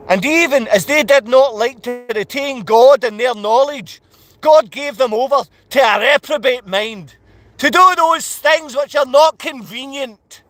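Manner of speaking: measured, declaimed Bible verse; scripture reading. Real, not acted. Ranter reading Romans to his viewers, declaimed scripture reading. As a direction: read the verse out firmly, phrase by phrase.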